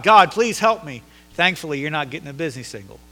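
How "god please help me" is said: raised, drawn-out plea to God; crying out. Acted. Frightened person praying for help, crying out. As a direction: cry out slowly for help. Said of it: "you're crying out to God".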